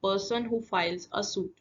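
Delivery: slow, deliberate quiz-question delivery; slow question reading. Shown as a demonstration. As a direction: read the clue slowly and clearly for the class. Teacher repeats the question once more.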